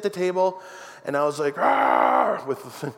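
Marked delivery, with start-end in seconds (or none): 1.6-2.4 drawn-out mock roar; playful monster growl. Plays monster with daughter.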